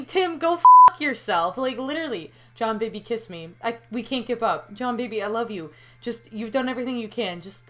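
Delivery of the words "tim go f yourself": higher and louder, snapped at him; angry curse. Acted. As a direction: tell him off hard. Cursing the alien.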